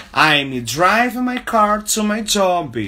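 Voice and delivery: slow teaching model. Shown as a demonstration. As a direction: announce the sentence slowly to the class.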